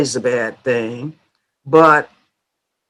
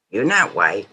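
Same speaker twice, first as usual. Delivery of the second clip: imitated scolding mother; faster than usual. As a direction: rattle off a mild motherly warning, a bit under your usual level. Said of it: "what mothers back then would say to you".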